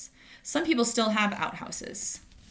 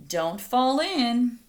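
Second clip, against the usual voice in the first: slow, louder grown-up caution; slow warning; 4 semitones higher, 4 dB louder, much slower than usual. Acted. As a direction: warn the kids off the well. Adults warn children at well.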